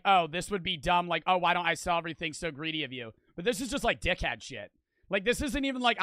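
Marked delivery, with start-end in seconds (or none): 0.0-3.1 mocking paraphrase. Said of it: "trying to make a point of".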